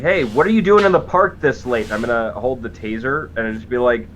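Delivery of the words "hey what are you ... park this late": raised, higher call, not a full shout; shouting over the crowd. Acted. Security guard challenges the crowd in the park, mildly shouting. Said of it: "I'll shout over them".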